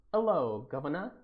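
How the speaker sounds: jokey English "'ello guv'nor" accent; loud-opening mock English greeting; put-on English accent. Shown as a demonstration. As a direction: show off a hammed-up Cockney-style English greeting. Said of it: "You butchered that accent".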